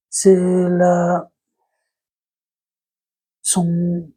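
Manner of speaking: slow, laboured verse reading, word groups split by pauses; fable reading. Acted. Vlogger struggling through a fable for viewers, slow halting recitation.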